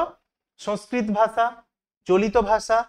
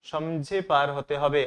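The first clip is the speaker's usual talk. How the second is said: slow emphasis; 5 semitones lower, 3 dB quieter, slower than usual. Shown as a demonstration. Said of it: "teacher repeats answer slowly".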